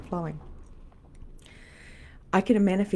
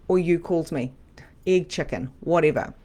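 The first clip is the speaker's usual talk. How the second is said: normal talking voice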